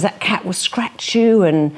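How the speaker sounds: lightly voiced worried mum; warning mother. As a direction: caution the child like a fretful mother. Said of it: "a child whose mother says".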